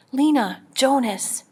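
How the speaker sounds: put-on mother calling her children from the train window; yelling names. A narrator's reading. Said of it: "yelled Mother".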